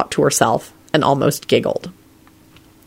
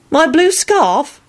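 slow, high-pitched amazed question; astonished; 12 semitones higher, much slower than usual. A narrator's reading. Elizabeth learning what he took, astonished. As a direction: ask it incredulously, pitched way up. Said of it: "looked astonished".

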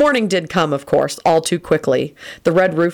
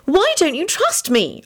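high, drawn-out wail; slow, high-pitched hurt plea; 13 semitones higher, slower than usual. A narrator's reading. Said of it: "Elizabeth wailed".

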